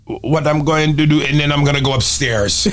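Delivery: mock a terrible accent turning American; Denzel's bad accent. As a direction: start in a badly faked accent, end American. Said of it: "it would start out horrible and then turn American".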